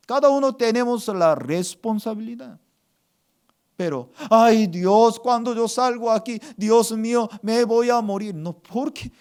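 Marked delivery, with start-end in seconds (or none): 4.3-8.3 loud "Ay", then fretful rush; mock panic. Believer afraid of going outside, mock panic. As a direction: fret like a terrified believer.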